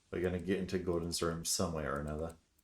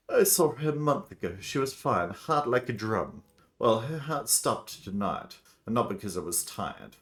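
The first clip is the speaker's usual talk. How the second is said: raised, projected doctor voice; insistent doctor; 4 semitones higher, 6 dB louder than usual. Acted. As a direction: insist as the doctor, starting high and loud, easing down.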